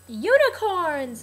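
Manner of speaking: slow, loud, high silly "Unicorns!"; mock loopy patient. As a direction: ham up a goofy drugged exclamation. Mock drugged-out patient outburst.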